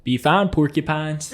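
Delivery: put-on playful Southern-accented sign-off with a laugh. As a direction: toss it off in a light Southern accent. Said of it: "I said it in a southern accent".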